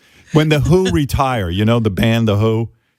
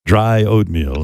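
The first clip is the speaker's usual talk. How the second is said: George Takei impression. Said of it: "the George Takei dry".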